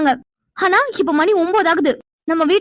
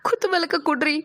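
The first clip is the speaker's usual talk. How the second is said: crying; 5 dB quieter than usual. Acted. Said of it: "நீ அழாத".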